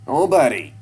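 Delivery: put-on high, loud defiant boy; defiant shout. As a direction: snap back at him. Son defiant answer to dad.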